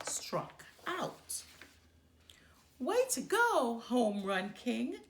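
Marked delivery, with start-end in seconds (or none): 2.8-5.0 loud, high sarcastic jeer; disgusted shout. Acted. Sister mocking Brother after his strikeout, loud sarcasm. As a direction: shout the praise with scorn. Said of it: "shouted Sister in disgust".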